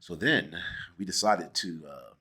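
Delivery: low, mock-refined Mid-Atlantic delivery; Mid-Atlantic accent. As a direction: keep the Mid-Atlantic bit going to tease the co-host. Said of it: "I might talk like this the rest of the interview".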